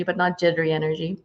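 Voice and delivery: soft unvoiced aside; whisper. Real, not acted. To her viewers about the energy she sends, a soft whisper. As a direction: drop to a whisper on the contrast. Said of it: "I wanna send you positive energy".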